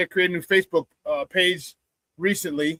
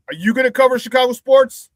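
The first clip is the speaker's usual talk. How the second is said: higher, incredulous question; sarcastic challenge; 5 semitones higher, 4 dB louder than usual. Real, not acted. Host mocking the hacker's use for the account, incredulous. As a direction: taunt the thief with a rhetorical question.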